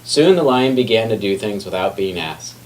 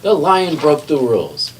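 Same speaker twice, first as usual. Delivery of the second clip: higher, insistent report; indignant tattling; 7 semitones higher, 3 dB louder than usual. A narrator's reading. McBee reporting the lion, higher and indignant. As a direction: tell on the lion breathlessly.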